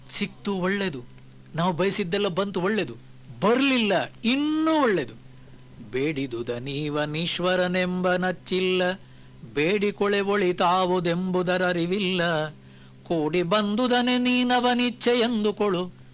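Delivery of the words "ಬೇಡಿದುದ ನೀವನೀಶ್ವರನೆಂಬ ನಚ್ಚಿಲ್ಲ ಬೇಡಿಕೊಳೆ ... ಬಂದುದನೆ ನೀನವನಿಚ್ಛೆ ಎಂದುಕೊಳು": slow, measured verse chanting; poem recitation. Acted. Speaker reciting a Kagga verse to listeners, slow and measured. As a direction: recite each line slowly and with weight.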